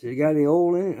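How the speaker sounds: incredulous boss. Retold or imitated. Boss asks on the phone.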